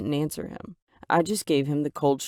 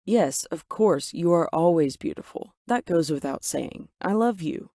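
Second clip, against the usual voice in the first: defensive. Acted. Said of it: "He replied defensively".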